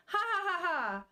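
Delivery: imitating laugh. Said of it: "he's kinda laughing".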